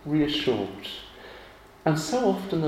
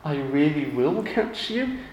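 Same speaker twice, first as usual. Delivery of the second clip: reassuring; slower than usual. Retold or imitated. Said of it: "I reassure them".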